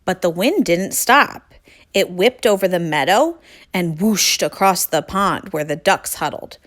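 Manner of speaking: clear, projected read-aloud voice; story narration. A narrator's reading. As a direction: read a picture book to young children.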